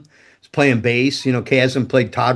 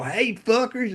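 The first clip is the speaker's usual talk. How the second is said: cocky greeting; 9 semitones higher, 5 dB quieter, slower than usual. Retold or imitated. Busting through the door.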